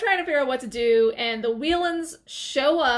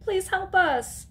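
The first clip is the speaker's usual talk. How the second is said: retold scream for help; 8 semitones higher than usual. Maya runs through the woods for help, mock scream. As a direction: plead in a raised, half-hearted scream. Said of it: "She's screaming".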